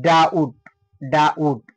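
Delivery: "ডাউট" with no b before t; silent B. Shown as a demonstration. Teacher answering how B sounds, "ডাউট" without b. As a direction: say "ডাউট" as a separate model word, B dropped. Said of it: "তাহলে এই বির উচ্চারণটা কি হবে".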